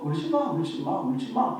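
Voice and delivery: soft, offhand "울지 마"; mock shallow, sentimental comfort; careless lip service. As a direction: brush her off with empty words. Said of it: "가벼운 감상적으로 립 인사로".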